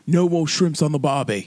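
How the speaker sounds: lightly hammed Australian trainer; mock Australian accent. Co-host echoing the trainer's diet rule, mock Australian. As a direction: echo it with a put-on Australian twang. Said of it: "Yeah, like that guy".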